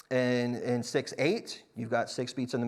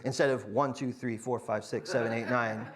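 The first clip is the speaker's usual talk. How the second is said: each beat counted flat and even; the wrong even count; bad counting; 3 semitones lower, 4 dB quieter than usual. Shown as a demonstration. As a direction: count all nine beats evenly, no grouping. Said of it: "that would be bad news".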